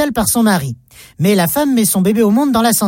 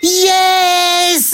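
triumphant yes; 8 semitones higher than usual. Acted. Punchline shouted in English.

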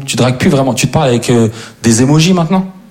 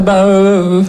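high, hesitant mock stammer; boy stuck on the phone, high and lost; nervous boy voice; 8 semitones higher, much slower than usual. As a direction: stumble it out, way up high. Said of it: "tu peux pas faire".

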